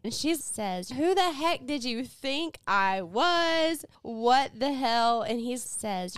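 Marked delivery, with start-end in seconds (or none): 0.9-5.2 slow, stretched mock outrage; indignant demand. Retelling Charlie confronting the man, slow indignant demand. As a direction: draw out each offended question. Retold woman confronts his mistake.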